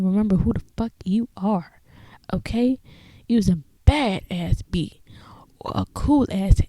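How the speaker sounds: hushed, intense whispered pep talk; a breathy conspiratorial whisper; playful whisper. Pretend. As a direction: whisper it like a secret hype speech. Hyped-up self pep talk.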